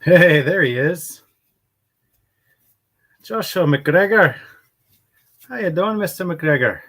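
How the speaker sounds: big loud hello to a viewer; loud greeting. Real, not acted. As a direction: call out the name with a loud welcome. Greeting a viewer loudly on stream.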